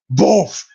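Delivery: sudden punchy "boof"; imitated spray burst. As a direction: mimic a spray going off in one burst.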